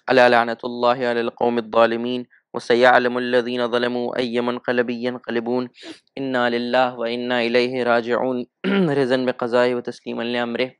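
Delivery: intoned Arabic formulas to close the majlis; Arabic prayer recitation. Acted. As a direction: recite the Arabic curse and prayer as a liturgical chant. Closing Arabic curse and prayer formulas. (अरबी दुआ की तिलावत)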